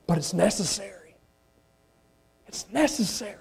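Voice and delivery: dropped to a soft, near-hushed aside. Real, not acted. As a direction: let it fall quiet after the shout. Sudden drop after shouting.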